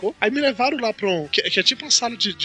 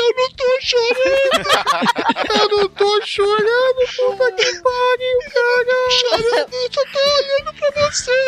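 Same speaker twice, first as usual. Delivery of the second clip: high, wailing voice insisting he is not crying; sobbing denial. Retold or imitated. Patient crying to his wife that he is fine, high sobbing wail. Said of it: "eu comecei a chorar copiosamente".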